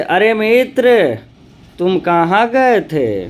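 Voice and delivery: अरे मित्र said slowly, a pause, then तुम कहाँ गए थे; slow address. Shown as a demonstration. Teacher reading the address example aloud. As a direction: linger on अरे मित्र before the question. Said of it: "जैसे".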